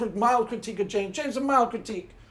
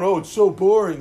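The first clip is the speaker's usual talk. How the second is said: mock bored whine; 4 semitones lower, 7 dB louder than usual. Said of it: "like pretending it's boring".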